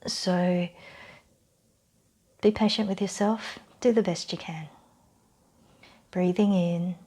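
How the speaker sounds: calm guided-relaxation voice with long pauses; measured meditation-style instruction; guided breathing exercise. Real, not acted. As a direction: lead them gently through the breath, unhurried.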